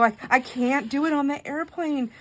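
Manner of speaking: high, frazzled retold plea; worked-up protest. Retold plea to travel companion.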